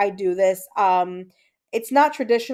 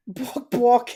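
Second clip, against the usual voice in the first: playful imitation of a chicken; short mock chicken squawks; chicken clucking; 2 semitones higher than usual. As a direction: cluck it like a hen, "bawk bawk". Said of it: "like how a chicken talks".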